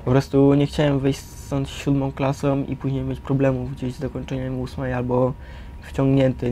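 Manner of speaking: usual speaking voice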